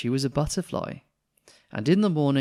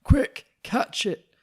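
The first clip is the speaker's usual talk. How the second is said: urgent call; 12 semitones higher, 8 dB louder, much slower than usual. Acted. Vet calls out in chaos.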